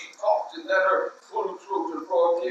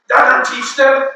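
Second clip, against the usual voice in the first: triumphant; 8 semitones higher, 9 dB louder, slower than usual. Acted. Triumphant exclamation.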